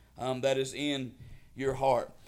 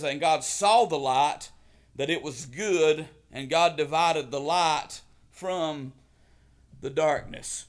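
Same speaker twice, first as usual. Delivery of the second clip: booming biblical narration; 3 dB louder, slower than usual. Acted. Reads Genesis verse four.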